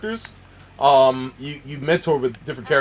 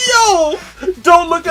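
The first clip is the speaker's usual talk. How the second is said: urgent call; 8 dB louder, much slower than usual. Real, not acted. Urgent warning to chat.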